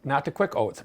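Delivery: P=A; stress on quick. Shown as a demonstration. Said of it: "but the old-fashioned oats".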